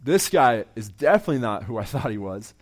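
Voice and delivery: a sudden loud whoa, then settling into amazed realization; astonished whoa. Retold or imitated. Preacher retelling the Samaritan woman's amazement, loud surprised whoa. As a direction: act out a woman caught off guard, with a burst of surprise. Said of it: "Suddenly she's like".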